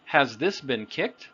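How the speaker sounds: "Has this been kicked" with a rise at the end; "kicked" rising, words linked in rhythm; natural question intonation. Shown as a demonstration. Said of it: "but with intonation, the rhythm of the language".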